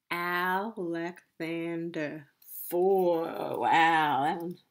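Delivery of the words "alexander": Alexander slow and softer, Al-ex-an-der; syllable by syllable. Shown as a demonstration. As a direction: stretch out all four syllables of Alexander. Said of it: "how many parts a word can be broken into".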